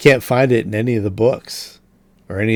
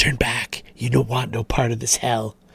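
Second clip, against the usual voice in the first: small creature voice, hushed half-whisper; 6 dB quieter than usual. Voicing a rat that stands upright and warns: half-whispering rat voice. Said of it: "whiskers and whispers".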